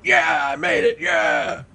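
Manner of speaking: high, hammed-up victory whoop; mock triumph. Host acting out how a drafted player should celebrate, whooping high. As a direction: imitate a fist-pumping yeah. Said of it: "throwing your fists in the air and going".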